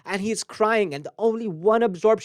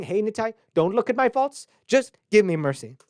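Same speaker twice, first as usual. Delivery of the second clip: pleading prayer; 3 semitones higher than usual. Retold or imitated. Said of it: "we're saying".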